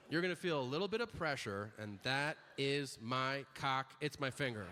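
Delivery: matter-of-fact doctor, slowing for the joke; deadpan. Retold or imitated. Doctor joking to patient during exam, deadpan. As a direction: deliver the joke drily, slowing midway. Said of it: "like that".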